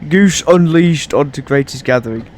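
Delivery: laughing. Real, not acted. Laughing at own joke.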